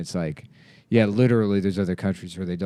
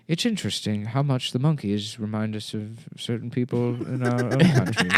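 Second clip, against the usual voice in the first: David Attenborough impression. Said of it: "David Attenborough is like".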